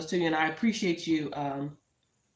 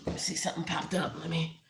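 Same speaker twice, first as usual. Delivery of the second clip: whispered aside; 4 dB quieter than usual. Real, not acted. Aside while screen changes.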